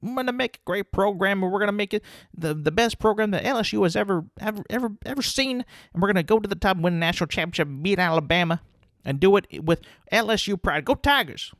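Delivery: high, rousing pep-talk voice pitched well up; rally the fans like a new head coach; coach's hyped speech. Retold or imitated. Coach pumping up the fans: high rally cry.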